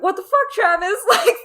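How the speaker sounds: high, loud yell after Travis; mock yelling crew. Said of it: "the rest of the crew was like".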